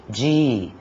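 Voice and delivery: "direito" broken into di, rei, to; syllable by syllable. Shown as a demonstration. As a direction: separate each syllable of "direito" with a pause. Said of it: "nós temos três sílabas".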